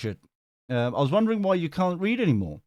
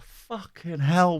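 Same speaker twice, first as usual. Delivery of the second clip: weary exasperation; 4 semitones higher, much slower than usual. Real, not acted. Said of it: "I've got to do this again tomorrow".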